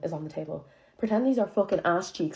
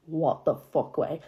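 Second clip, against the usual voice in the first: slow, drawn-out "what the fuck"; disgusted; slower than usual. Shown as a demonstration. Telling friends what she meant, slow and disgusted. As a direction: drag it out in disbelief. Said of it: "I mean it as in".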